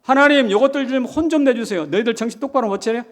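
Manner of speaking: mock scolding prayer. Voicing Isaiah's scolding prayer.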